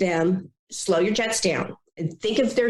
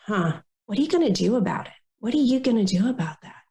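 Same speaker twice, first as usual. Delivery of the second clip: empathetic but pushing; 2 semitones higher than usual. Shown as a demonstration. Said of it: "So instead, go".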